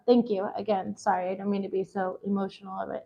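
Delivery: soft, tearful thanks, voice sinking away; teary apology. Real, not acted. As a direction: apologize while holding back tears. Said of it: "I'm, like, crying over everything".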